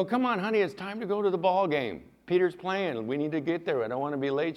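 urging wife. Retold or imitated. Retold urging wife to game.

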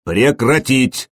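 slow, drawn-out commanding call; thundering command. Acted. Prince stopping the brawl with a slow booming command. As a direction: cut through the laughter with authority. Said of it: "прогремело в гриднице".

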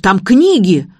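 loud, slow panicky squeal. A narrator's reading. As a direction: yelp it out defending the bag. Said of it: "взвизгнул Игорёк".

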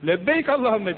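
tiz ve yüksek "Tamam, lebbeyk"; coşkulu cevap. Acted. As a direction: davete hevesle karşılık ver. Cemaate cevabı öğretiyor. (Allah'ın davetine coşkuyla icabet eden mümin)

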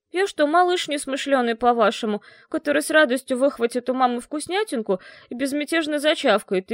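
put-on a proud boy refusing the last food; indignant teen. Slavka refusing food from two weak women, indignant. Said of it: "возмущённо завопил Славка".

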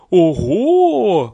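high, loud astonished cry; surprised horse. Acted. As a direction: gasp it out in shock. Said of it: "удивилась лошадь".

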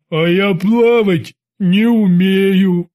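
slow, pitiful big-man voice; plaintive slow rumble. Acted. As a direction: whine it out slowly like a sad giant. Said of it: "жалостливо пробасил Бабс".

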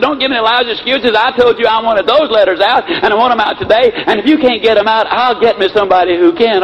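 imitated boss telling off staff; mock upset boss. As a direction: lay down the law in mock exasperation. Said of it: "Oh, he was really upset".

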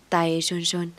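usual speaking voice

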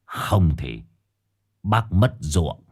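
put-on low, slurred drunken thug. A narrator's reading. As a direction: slur it like a drunk bully. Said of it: "giọng lè nhè bảo bác Cảo Anh".

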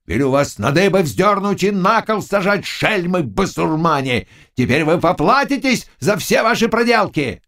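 high, furious bellow at the peasants; furious yelling. A narrator's reading. Zagloba berates frightened peasants, furious yelling. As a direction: roar threats like an enraged noble. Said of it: "орал".

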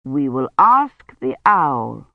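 low, slow bear voice; ponderous storybook bear with big swoops; kindly bear. A narrator's reading. Bear answers the maiden in the dark, kindly bear.

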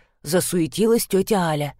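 plain reading voice

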